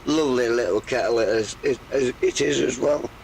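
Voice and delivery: hoarse and croaky; rough croaky throat. Real, not acted. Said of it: "God, croaky voice".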